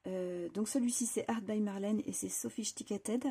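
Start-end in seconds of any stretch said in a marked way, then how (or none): 1.3-3.2 English names in a French accent; unsure French-accented English. Real, not acted. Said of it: "je le prononce peut-être pas bien du tout".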